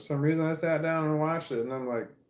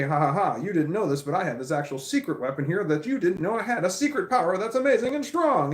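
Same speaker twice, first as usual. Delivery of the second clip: mock anime boaster; 5 semitones higher than usual. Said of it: "they turn around and say".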